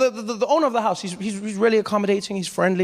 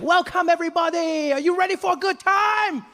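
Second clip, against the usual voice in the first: much higher, beaming guide greeting; overly happy tour guide; 10 semitones higher than usual. Retold or imitated. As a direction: welcome them like a too-cheerful guide. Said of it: "he's just like".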